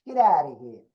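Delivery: his old kid accent, put on; thick youthful street accent. Shown as a demonstration. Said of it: "I had that kind of an accent".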